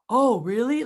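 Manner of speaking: wide-eyed, eager surprise; excited. Shown as a demonstration. Rep hearing the deal from manager, excited. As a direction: show the customer you're amazed. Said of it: "open your eyes and get excited".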